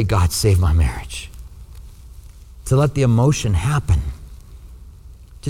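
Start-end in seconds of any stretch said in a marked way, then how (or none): 0.0-1.3 low, whispery plea to God; vulnerable prayer. Acted. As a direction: let the walls down and plead privately, very low. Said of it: "get very vulnerable to God".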